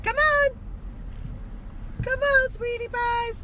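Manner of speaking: high-pitched sing-out to the animals; calling pets. Real, not acted. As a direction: coax them over sweetly. Calling pet animals sweetly.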